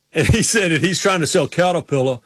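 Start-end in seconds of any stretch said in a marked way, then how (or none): 1.5-2.2 "Caterpillar" with the R sounds dropped; imitated R-less "Caterpillar"; dropped R's. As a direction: say "Caterpillar" as "Cattapilla". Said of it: "he couldn't pronounce ours".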